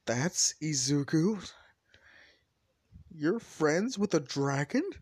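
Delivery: slow, drawn-out disbelief, rising at the end; incredulous question. Acted. Friends learn Izuku is a dragon, incredulous. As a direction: stretch it out as a stunned question.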